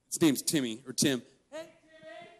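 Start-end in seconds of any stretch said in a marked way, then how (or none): 1.5-2.3 high-pitched taunting yell, as if from across the street; mock screaming. Neighbor girls heckling the brother doing yard work, mock screaming. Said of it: "Just screaming at him".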